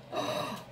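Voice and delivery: sharp anxious intake of breath; gasp. Real, not acted. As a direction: gasp as something drops. Something falls from the palette.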